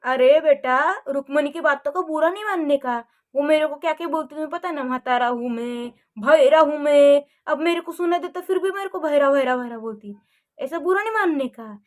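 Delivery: father comforting his upset daughter; gentle consoling. Acted. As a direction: soothe her gently.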